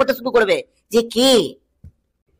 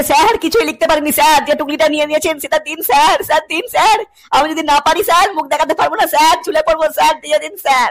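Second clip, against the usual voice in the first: mock pleading student; 2 semitones higher than usual. Begging teacher for cheat sheet.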